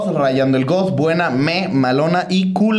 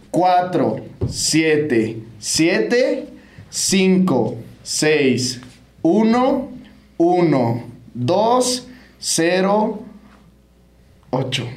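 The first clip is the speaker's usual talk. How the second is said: very slow digits with pauses between; slow dictation; 3 semitones higher, much slower than usual. Real, not acted. Host repeating the WhatsApp number for listeners, slowly digit by digit.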